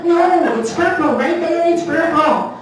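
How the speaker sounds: hammed-up stubborn official; insistent clerk. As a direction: play the clerk pointing it out firmly. Clerk insisting on pen colour.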